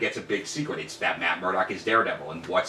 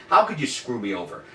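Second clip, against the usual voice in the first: Richard Lewis; 5 semitones higher than usual. Retold or imitated. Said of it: "Richard Lewis is like".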